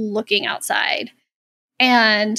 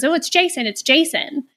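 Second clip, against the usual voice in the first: mock excited; 4 semitones higher than usual. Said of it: "she gets all excited".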